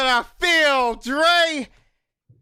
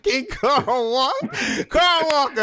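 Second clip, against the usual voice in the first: laughing through names; 4 semitones higher, slower than usual. Real, not acted. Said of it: "Let me stop".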